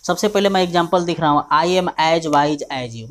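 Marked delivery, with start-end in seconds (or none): 1.5-3.1 slow dictation. Shown as a demonstration. Teacher dictates example sentence.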